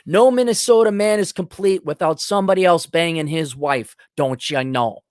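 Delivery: put-on Minnesota accent, mildly exaggerated. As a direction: do a Minnesota man listing his wants. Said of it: "This is the Minnesota accent".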